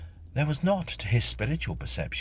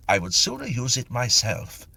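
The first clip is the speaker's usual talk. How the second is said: mildly indignant; 6 semitones higher, 3 dB louder than usual. Acted. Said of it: "said Mister Tilly indignantly".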